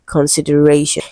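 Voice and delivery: "consideration" with the weight just before the final "shun"; stress before "shun". Shown as a demonstration. Teacher confirming the answer to students, "consideration" stressed on "ra". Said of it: "stressed on the syllable before".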